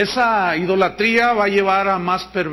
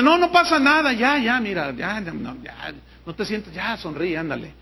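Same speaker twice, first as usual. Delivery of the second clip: mock soothing pastor. Careless teacher mocked. (imitación burlona de pastor que consuela)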